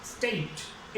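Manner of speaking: "स्टेट" said slowly and softly, gliding the vowel from ए to ई; teacher's careful demo of the diphthong; slow model word. Shown as a demonstration. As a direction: draw out the ए-ई glide in "स्टेट". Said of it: "ए और ई".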